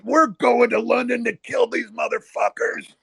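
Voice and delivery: high-pitched mock rampage; retold furious threat. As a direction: imitate an enraged trader storming out. Jimmy crashes out, threatening revenge.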